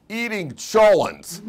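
high and loud, slowly, cracking up with laughter; boy blurts it out through laughter; laughing kid's answer. Retold or imitated. Boy at graduation answers principal, laughing high and loud. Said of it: "He goes".

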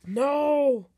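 loud, drawn-out "no", pitch arching up; alarmed refusal. Pretend. Player stopping the other from opening the door, alarmed shout. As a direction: cry out in protest. Told the door will be opened.

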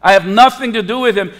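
mildly heated mock oath; sworn denial. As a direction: swear it insistently, as Peter denying he knows him. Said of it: "oath to swear by the living God".

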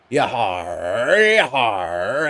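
lilting pirate yahars; sing-song yahars fading out; pirate cries. Acted. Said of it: "my amazing pirate voice".

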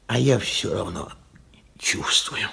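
whispered confession. Acted. Old man whispers to himself that he still feels guilty. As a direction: whisper it ashamed.

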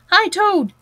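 high, loud hail; calling out. A narrator's reading. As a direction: call over to a friend down the road. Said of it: "they called".

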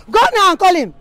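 loud, scolding order; mother loses patience and shouts at daughter; angry command. Acted. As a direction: bark the order at her.

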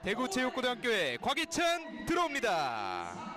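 rising live race call, building up; race caller. Real, not acted. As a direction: call the finish, climbing in pitch and excitement.

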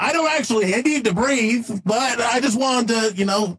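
friendly AI sidekick. Acted. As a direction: explain yourself like a chummy cartoon AI. Plays Leroy the AI sidekick.

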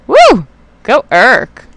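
high loud whoop; cheer. Real, not acted. Player cheering his unit on, high whoop. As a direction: let out a gleeful whoop.

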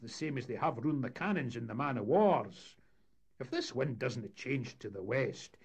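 gloomy shipmate poking fun at the plan; Dougie voice. Acted. Mate character mocking the idea.

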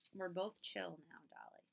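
settled, soft and easy; calm and chill. Acted. Friend tells Dolly they both calmed down, soft and relaxed. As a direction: let it fall gently, fully calmed down.

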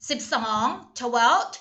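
twelve drawn out slowly with a rising tune; slow teaching model. Shown as a demonstration. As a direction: stretch out twelve slowly for students. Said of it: "ไม่ได้ออกเป็น second". (พูด twelve ช้าๆ เน้นให้นักเรียนฟัง)

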